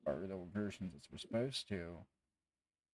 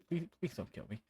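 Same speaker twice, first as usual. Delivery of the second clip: higher-pitched, pleading fear; acted scared plea; frightened bartender; 7 semitones higher than usual. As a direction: beg like a scared barkeep. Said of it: "who is frightened".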